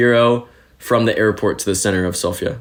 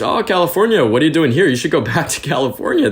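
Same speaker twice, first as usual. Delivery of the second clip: higher-pitched, animated mock surprise; retold incredulity; 6 semitones higher than usual. Taxi driver questioning a Californian newcomer, retold incredulity.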